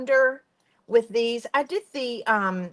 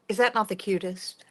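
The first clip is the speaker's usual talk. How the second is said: whisper. Real, not acted. Gushing over finished soap.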